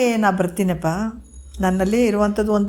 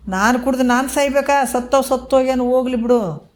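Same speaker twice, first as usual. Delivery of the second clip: higher-pitched, mildly hammed-up protest; indignant refusal; 5 semitones higher than usual. Wife refuses guru's milk that would kill her, acted indignation. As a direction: imitate a wife balking at the idea.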